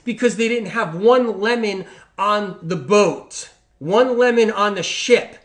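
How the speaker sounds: "one" and "lemon" hit hard, slow and loud; stress on one lemon. Real, not acted. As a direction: hammer home "one lemon" slowly. Stresses sailors had no lemon.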